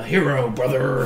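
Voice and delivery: lightly growled wrestler catchphrase; Hulk Hogan. Acted. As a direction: put a hammy wrestler rasp on it. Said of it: "you gotta go to the voice of".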